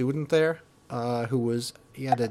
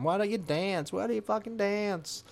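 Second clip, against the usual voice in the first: retold yell; 8 semitones higher, 3 dB quieter than usual. Musician berating a crowd standing around, mock yelling. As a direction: imitate a heckling singer without real volume. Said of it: "He's yelling at him".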